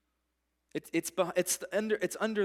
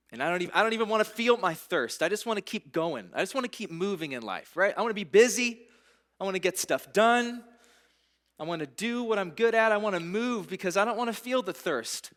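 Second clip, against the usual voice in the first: restless seeker; 6 semitones higher, 7 dB louder than usual. Acted. Preacher voicing a restless seeker to the congregation, loud and rushed. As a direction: pitch jumps higher and much louder, rushing.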